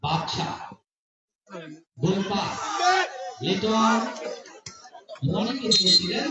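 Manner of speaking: rapid live play-by-play; frantic football commentary. Real, not acted. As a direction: call the match as it unfolds.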